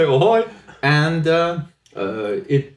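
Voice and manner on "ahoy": hearty ahoy, a little higher; sailor's ahoy. Retold or imitated. Answering the phone like a sailor, calling ahoy. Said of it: "Pick up the phone and say".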